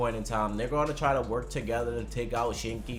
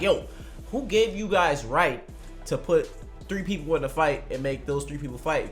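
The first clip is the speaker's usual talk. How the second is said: louder, higher disbelieving call-out; incredulous outburst; 5 semitones higher, 3 dB louder than usual. Retold or imitated. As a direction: demand an answer in mock outrage. Imagined outraged fan reaction.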